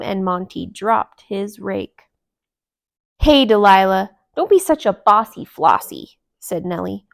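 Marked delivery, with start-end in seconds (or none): 3.2-6.2 scolding. Acted. Nellie scolds Delilah.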